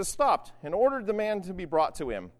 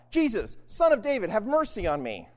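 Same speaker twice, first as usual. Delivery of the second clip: raised, pleading call; 2 semitones higher than usual. Acted. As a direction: beggar calling to a passerby. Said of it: "He called out".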